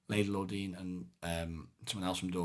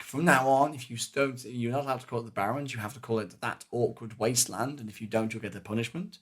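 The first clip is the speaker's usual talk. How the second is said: higher, louder mock decree; imitated Fools; 3 semitones higher, 7 dB louder than usual. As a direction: lay down silly rules like a Fool. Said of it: "So they were like".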